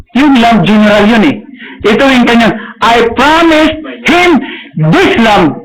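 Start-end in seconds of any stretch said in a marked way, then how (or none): 2.8-5.6 tearful insistence. Acted. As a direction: hold the promise through tears.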